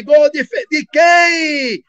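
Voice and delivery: hammed-up announcer unsure of the scorer; announcer shouting. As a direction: bark the question like a confused commentator. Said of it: "Aí o locutor".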